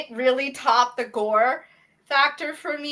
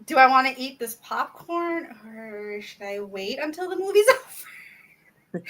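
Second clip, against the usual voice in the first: queasy hesitation. Retold or imitated. Acting out own queasy hesitation.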